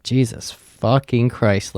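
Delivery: slow, spaced-out swearing; drawn-out exasperated oath; retold exasperation. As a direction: stretch each word in mild disbelief.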